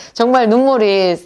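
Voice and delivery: usual speaking voice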